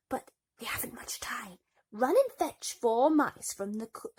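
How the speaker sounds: breathy, urgent godmother; fairy godmother sending Cinderella for mice. A narrator's reading. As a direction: hurry her along with magic in the voice.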